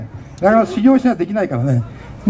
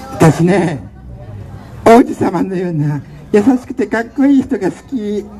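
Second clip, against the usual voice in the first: put-on girly mascot voice; slower than usual. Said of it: "なんだその声は".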